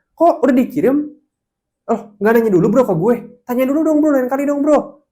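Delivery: high, loud exasperated scolding of a friend; annoyed scolding. Retold or imitated. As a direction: snap at him like an irritated colleague. Friend scolding angrily over chat.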